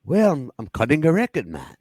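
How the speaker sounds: lightly put-on, bad British celebrity voice; half-hearted British impression, hurried in places; horrible impression of a famous singer. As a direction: do a badly faked Liverpool musician. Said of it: "That's my horrible impression of a famous singer".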